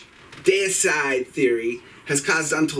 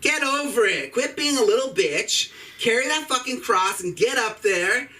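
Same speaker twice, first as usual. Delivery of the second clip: mock scolding; 5 semitones higher than usual. Scolding Jesus mockingly.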